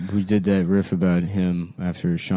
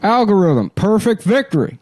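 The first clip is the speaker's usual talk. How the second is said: fighting game announcer; 9 semitones higher than usual. Acted. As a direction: boom it like an arcade announcer. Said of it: "that was the computer".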